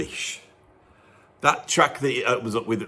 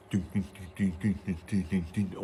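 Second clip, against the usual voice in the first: bass line hummed; 6 semitones lower, 10 dB quieter than usual. Retold or imitated. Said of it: "just going dum".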